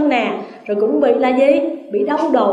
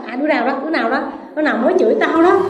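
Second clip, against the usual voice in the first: blind man griping; much faster than usual. Retold or imitated. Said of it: "ai chửi một cái là".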